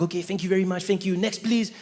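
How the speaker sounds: put-on light French accent; brisk service patter with French accent; young French guy. Young French clerk to customers, French accent. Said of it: "but very French, very French, cool guy".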